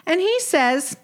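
lightly voiced exasperated wife; a hint of a fed-up Brooklyn wife; Sadie. Sadie complains about husband.

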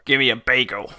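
lightly hammed-up New York accent; New York bridge troll. Host trying out New York stereotypes, mock New York accent. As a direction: demand it like a stock New Yorker. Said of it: "he's found his calling in life".

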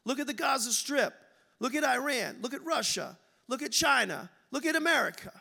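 pleading complaint. Retold or imitated. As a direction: point out each nation to God one by one. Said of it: "Let's modernize this".

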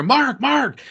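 imitating people calling out to get his attention. People calling him across the hall.

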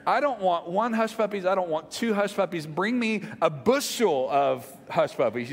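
building to a big hungry boom; booming motivational speech. Acted. Hyped hush puppy craving.

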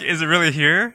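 playful hammed-up suspense; a mother hamming up a fly hunt for her scared daughters; mock suspense for the kids. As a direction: play it up like a show for little kids. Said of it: "doing a show for them".

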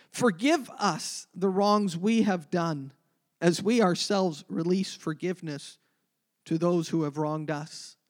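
prayer reading. Acted. Reads the prayer aloud.

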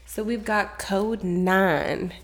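lightly put-on Southern lady, slowed at first; Southern lady accent. Co-host playfully introduces the gossip chapter in a light Southern lady accent. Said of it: "Here's my southern accent, my, like, southern, my southern lady accent".

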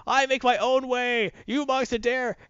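high, slow, menacing Goblin boast; Goblin villain voice. Retold or imitated. Goblin defying the monks, slow high menacing boast. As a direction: draw it out like a gloating supervillain. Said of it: "Yes, I am the Green Goblin".

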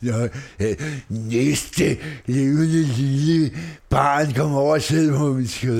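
a slow, drawn-out mall Santa; lightly voiced department-store Santa calling the next child; a mall Santa invites kids onto his lap, slow and hammy. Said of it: "han er vild i dag".

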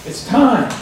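dying father gladly reassuring his son, retold; imitating grinning father. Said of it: "I mean, he grinned".

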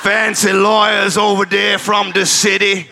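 put-on Deep South lawyer accent. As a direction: lay on a Deep South twang for the jury. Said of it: "in the style of a Deep South defense lawyer".

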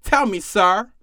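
ordinary delivery

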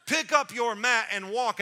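loud, high, insistent order; emphatic shouted instruction; shutting down whining. Acted. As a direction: override him with a forceful command. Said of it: "Let me shut down the wambulance".

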